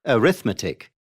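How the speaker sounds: arithmetic as a-RITH-me-tic; stress third from end. Shown as a demonstration. Teacher giving an example, arithmetic stressed on RITH. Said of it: "on the third syllable from the end".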